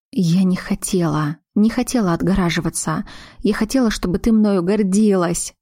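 a touch of tearful strain, voice lifting; mildly weepy plea; crying. Acted. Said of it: "заплакала Глаша".

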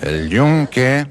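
proud answer. Acted. Student repeats the answer to the professor, slow and proud. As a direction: announce it like you're sure.

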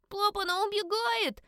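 put-on high child's cry; yelling little girl. A narrator's reading. Little girl yelling to dad the pet escapes, high cry. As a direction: alarm the whole room. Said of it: "завопила противная девчонка".

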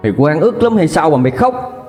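high, fast, shrill-edged accusing wail; a mother crying and railing at her daughter; wailing tirade. Acted. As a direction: scream the shame back at her. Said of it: "vừa khóc bà vừa tru tréo".

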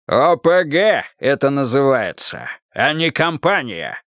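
booming. Acted. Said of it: "громогласно высказался Карпов".

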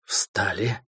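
soft hissed order; hissed command. Acted. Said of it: "тихо прошипел Трой".

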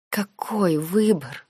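slow, drawn-out moan; moaned question. A narrator's reading. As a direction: groan the question out in despair. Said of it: "простонала я".

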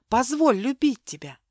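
позволь любить тебя pleaded aloud, voiced and rising; pleading. Milena begging Mark to let her love him, voiced plea. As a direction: beg for it openly, voice up.

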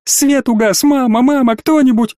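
put-on a frightened girl crying out in the dark; terrified girl's cry. A narrator's reading. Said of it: "полный ужаса девичий вскрик". (испуганный девичий вскрик, выше и громче)

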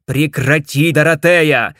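loud furious outburst; raging. Acted. Ted rages at Dorothea, loud and furious. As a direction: blow up at her. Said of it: "бушевал я".

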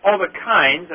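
"kinds" given clear emphasis; stress on KINDS. Real, not acted. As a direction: lean on the word "kinds". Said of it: "I emphasize the word kind".

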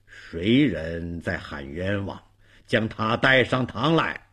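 a hint of a judge presiding; stern magistrate. (略带官腔的包公)

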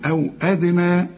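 أدنى with d bounced before n; qalqala on dal. Shown as a demonstration. Teacher asks student to repeat, أدنى with bounced dal. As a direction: model أو أدنى with echoing d. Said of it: "قل لي".

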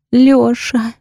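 calling him as tears start; tearful cry. A narrator's reading. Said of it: "Начинаю реветь". (со слезами в голосе)

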